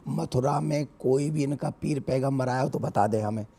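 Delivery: speaking through a sore throat; rough, strained from a bad throat; hoarse voice. Real, not acted. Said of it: "मेरा गला खराब है".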